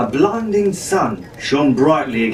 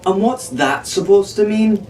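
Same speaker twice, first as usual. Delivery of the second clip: demanding; 7 semitones higher than usual. A narrator's reading. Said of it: "Arabella demanded".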